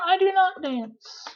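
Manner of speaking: I do not dance said high and slowly; careful model sentence. Shown as a demonstration. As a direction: lift and slow the do. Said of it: "That's how you would make it negative".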